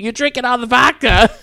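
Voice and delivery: high-pitched mock complaint; whiny protest. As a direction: imitate an aggrieved birthday boy, voice way up. Mike protests over his vodka.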